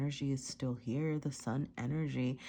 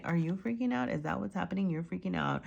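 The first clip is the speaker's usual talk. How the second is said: higher, coaxing pet talk; talking to the cat; 4 semitones higher than usual. Real, not acted. To her cat who just freaked out, higher coaxing voice. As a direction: ask the cat what's wrong, higher.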